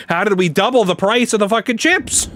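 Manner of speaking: half-laughing exasperation at the chip prices; exasperated disbelief. Retold or imitated. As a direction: ask it like the price is a bad joke. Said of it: "I was like".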